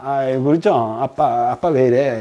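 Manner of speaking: put-on low voice of a child consoling dad; mock soothing. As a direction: gently humour a weeping father. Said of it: "애가 또 싹 달래주고". (아빠를 달래듯 낮은 목소리로)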